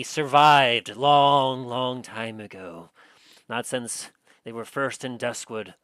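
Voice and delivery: dramatic next-episode narration; trailer narration. Acted.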